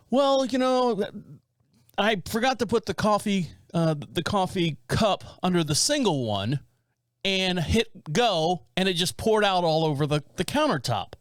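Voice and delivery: hint of a fumbling old man owning up; sheepish old dad. Son imitating his dad confessing the coffee spill, lightly sheepish.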